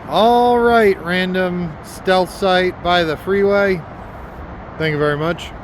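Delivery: chewing while talking; talking through a mouthful of bagel; mouth full. Real, not acted. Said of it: "Sorry, I'm chewing a bagel".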